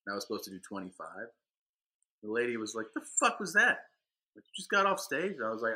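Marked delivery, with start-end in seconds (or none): 2.9-5.3 high-pitched incredulous woman; retold indignant scolding. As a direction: imitate a club lady demanding an explanation. Retold lady berates him.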